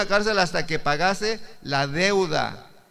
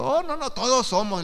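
higher, lightly voiced dismissive reply; imitating the other person; 6 semitones higher than usual. Preacher mimics the man he witnessed to, lightly voiced. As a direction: brush it off in a put-on voice.

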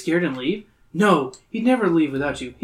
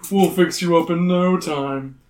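creepy host voice; 3 semitones higher, 5 dB louder, slower than usual. Acted. Voices Carmine.

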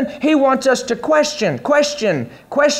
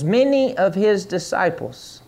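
many of his disciples said slower and softer; 2 semitones lower, 4 dB quieter than usual. Shown as a demonstration. Preacher repeating many of his disciples slowly and softly for the congregation. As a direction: draw out many of his disciples, slow and soft. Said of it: "say many".

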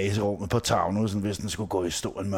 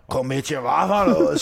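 louder, sharper retort; mock angry retort; 4 semitones higher, 5 dB louder than usual. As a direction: snap it back at her, half-joking. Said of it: "siger jeg så til hende".

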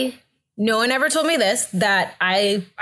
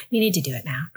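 whispered plea, imitating pain; strained retold whisper; urgent whisper; 5 semitones lower, faster than usual. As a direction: hiss it out under your breath, desperate. Retold urgent plea during contractions.

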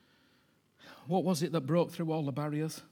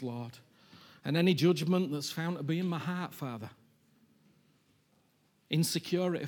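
fervent prayer. Acted. Preacher leading the church in fervent prayer. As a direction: pour it out with open arms.

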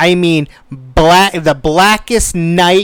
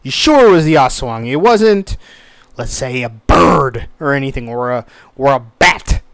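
skeptical. Retold or imitated. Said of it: "the old skeptical eye".

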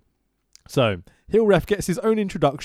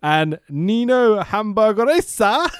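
slow, raised ring announcer call; 6 semitones higher, 4 dB louder, much slower than usual. Acted. Announcing favourite wrestler.

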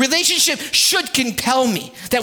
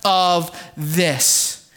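reassuring; 6 semitones lower than usual. Retold or imitated. Husband reassures hurt wife.

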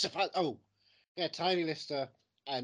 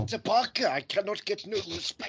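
Rodney Dangerfield; 8 semitones higher, 8 dB louder than usual. Retold or imitated. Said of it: "Rodney Dangerfield and Notting Hill".

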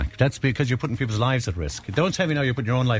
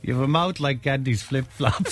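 laughing while saying; 2 semitones higher, slower than usual. Real, not acted.

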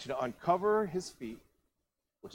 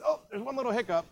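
sheepish aside; 11 semitones higher, 3 dB louder than usual. Acted. Boaz noting a snag.

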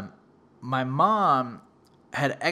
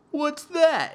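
mock eager question; 12 semitones higher, 3 dB louder than usual. Sister's question acted out.

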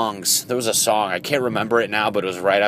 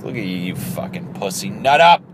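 angry dad. Retold or imitated. Masculine side to crying man, mild angry dad scolding. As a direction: bark at yourself like a disappointed dad. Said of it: "like an angry dad".

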